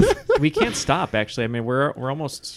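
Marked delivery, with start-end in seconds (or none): 0.0-1.1 laughing, slow and high; giggling through the words. Real, not acted. Laughing about the drink.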